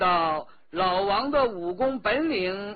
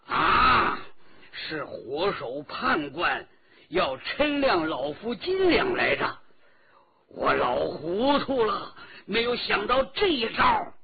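louder, higher loud cry of realization; loud exclamation; 5 semitones higher, 6 dB louder than usual. A narrator's reading. Old escort chief sees through the scheme, loud cry. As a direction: shout it as the penny drops, rising at the end. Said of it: "大声地说".

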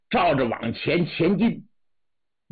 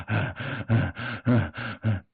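lower-pitched breathless "啊" gasps; panting gasps; 6 semitones lower, 4 dB quieter than usual. A narrator's reading. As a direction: pant hard after running. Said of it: "气喘吁吁". (跑得气喘吁吁)

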